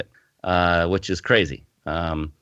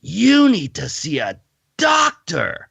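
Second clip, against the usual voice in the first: much higher, louder and slow, a startled nurse; alarmed exclamation; 10 semitones higher, 5 dB louder, slower than usual. Retold or imitated. Nurse stares at his test results, alarmed and exclaiming. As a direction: blurt it out like a frightened nurse. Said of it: "she just exclaimed".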